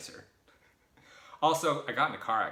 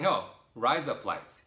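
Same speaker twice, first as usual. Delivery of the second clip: "rise up lights" slowly, louder; insistent correction; 6 dB louder, slower than usual. Retold or imitated. Correcting the Australian guy, slow insistent "rise up lights". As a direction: spell out "rise up lights" word by word. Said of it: "I was like".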